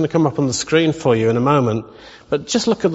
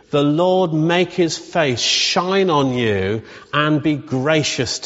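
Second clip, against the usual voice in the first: slow, measured recitation of a blessing; slow benediction with drawn-out phrases; spoken blessing; much slower than usual. Acted. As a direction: pronounce a blessing over them, word by word. Recites the blessing over the congregation.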